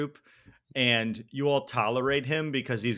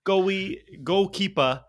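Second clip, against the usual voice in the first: put-on playful, higher-pitched Boston accent; 5 semitones higher than usual. Host riffing on goalkeeper to co-host, Boston accent. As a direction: drop the r's like a Bostonian. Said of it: "that's my Boston accent".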